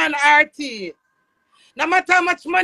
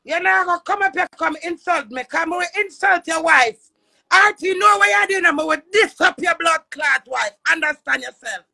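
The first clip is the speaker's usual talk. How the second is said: angry shouting. Real, not acted. Friend threatening her auntie on a live stream, shouting angrily. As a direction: bark the threat back at her.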